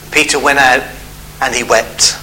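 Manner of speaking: low, hushed sorrowful reading; sad. A narrator's reading. Preacher reads Peter's weeping after the denial, sad. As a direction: let it sink, grave and subdued. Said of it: "one of those sad verses".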